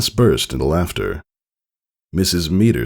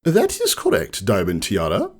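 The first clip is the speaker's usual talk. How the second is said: warm approval; 4 semitones higher than usual. Acted. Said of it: "smiled warmly".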